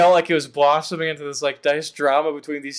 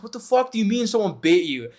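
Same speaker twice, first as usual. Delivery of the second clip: higher alarmed question; retelling Tess's shocked reply; mock Tess; 6 semitones higher than usual. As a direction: voice her disbelief, pitched up. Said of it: "the woman Tess is like".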